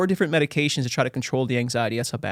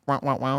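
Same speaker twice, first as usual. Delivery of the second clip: casual mimicked sound effect; imitated buzzer button; 3 dB quieter than usual. Guest asking for a sound button, imitating it. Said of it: "you have a button that says".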